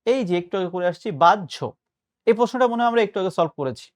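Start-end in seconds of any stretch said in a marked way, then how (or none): 1.1-1.7 বাহ্য said as "bajjho"; correct pronunciation. Shown as a demonstration. Teacher recalling an earlier answer, correct বাহ্য as "bajjho". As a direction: lean on the doubled middle of বাহ্য, "baj-jho". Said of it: "প্রমিত উচ্চারণ হচ্ছে".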